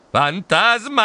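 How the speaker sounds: high, drawn-out scream of fright; screaming again. A narrator's reading. Narrator waking to see the ghost, frightened scream. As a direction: wail it long and high. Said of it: "urlai di nuovo".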